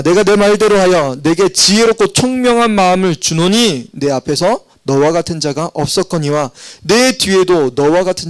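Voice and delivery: measured, formal Bible reading; scripture reading. Acted. Pastor reading verse ten to the congregation, formal reading voice. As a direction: read the verse out with weight.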